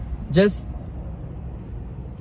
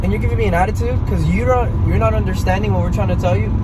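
higher, worked-up ranting; heated rant; 6 semitones higher than usual. Real, not acted. Vlogger still heated about the drive-thru, ranting higher. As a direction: vent the anger all over again. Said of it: "I just had to rant".

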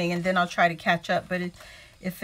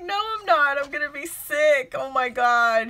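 higher, louder mock protest; dramatic protest; 4 semitones higher, 4 dB louder than usual. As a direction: insist like a drama queen. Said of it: "And I'm like".

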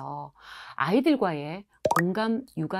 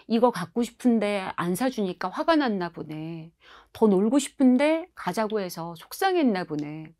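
gentle empathy. Shown as a demonstration. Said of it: "이렇게 하셔야 되거든요".

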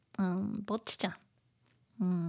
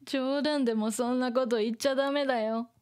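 scary voice; much faster than usual. Acted. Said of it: "using her scary voice".

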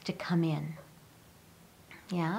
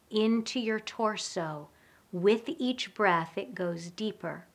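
guided breathing. Shown as a demonstration. Leads a calming breathing exercise.

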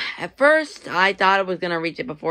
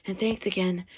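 winded, softer and sighing; breathless after talking; out of breath; 6 dB quieter than usual. Real, not acted. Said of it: "I'm kinda out of breath now".

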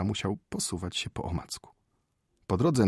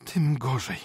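wife's mock cry; indignant cry; 6 semitones higher, slower than usual. A narrator's reading. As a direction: exclaim in scandalised dismay. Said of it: "krzyknęła Maria Michajłowna".

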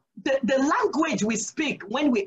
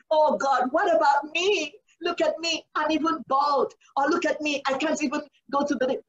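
higher pitched, a complaining plea to God; mock whiny complaint; 4 semitones higher than usual. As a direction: play the self-pitying pray-er. Mock whining prayer of complaint.

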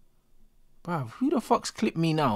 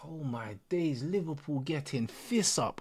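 whispered disbelief; 8 dB quieter than usual. Real, not acted. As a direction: breathe it out, speechless. Stunned by the match.

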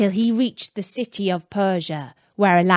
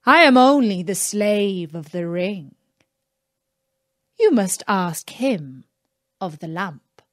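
genie; 2 semitones lower than usual. Acted. Genie answers Aladdin.

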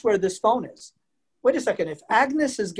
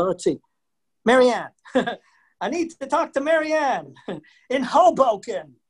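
raised, eager call to the operator; phone caller; 3 semitones higher than usual. Retold or imitated. Caller ringing the operator for Marianne, raised and eager. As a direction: hail the operator brightly down the old line. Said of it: "and you'd say".

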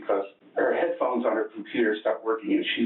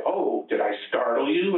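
sarcastic; 5 semitones higher than usual. Retold or imitated. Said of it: "really, you know, sarcastic".

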